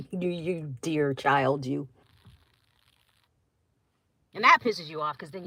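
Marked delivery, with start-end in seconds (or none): 0.1-1.9 slow patronizing elder. Retold or imitated. Older person patronizing young.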